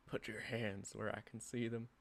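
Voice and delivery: soft, trembling threat from behind; menacing yet quivering voice. Acted. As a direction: threaten them, but nervous underneath. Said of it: "a menacing yet quivering voice".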